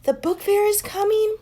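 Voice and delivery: high, loud delighted question; can't believe the good news; thrilled. A narrator's reading. Classmates to teacher, high thrilled question. Kids thrilled about book fair.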